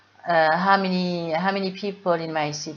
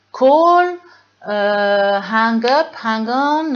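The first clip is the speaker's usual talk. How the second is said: phone menu words; 3 semitones higher, 6 dB louder, much slower than usual. Shown as a demonstration. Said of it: "Mettez-le en anglais".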